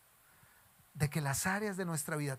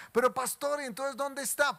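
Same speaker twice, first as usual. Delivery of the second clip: higher, louder doubting question; puzzled churchgoer; 7 semitones higher, 5 dB louder than usual. Retold or imitated. A churchgoer challenges the pastor, higher and louder. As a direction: ask it like a confused listener.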